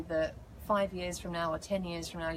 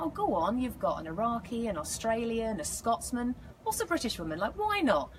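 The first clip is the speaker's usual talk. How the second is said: higher-pitched, lively wheedling; playful coaxing; 4 semitones higher than usual. Retold or imitated. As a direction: talk them into it, retelling your own plea. Retells coaxing the show's creators.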